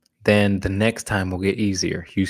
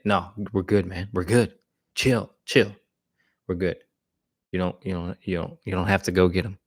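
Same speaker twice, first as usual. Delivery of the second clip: calm reassurance; 4 dB quieter than usual. Retold or imitated. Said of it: "you say".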